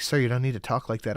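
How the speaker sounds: quick, prim scolding in a put-on cashier voice; lightly voiced cashier telling off a swearing customer; mock KFC worker. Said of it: "I liked the voice you put on for the K F C people".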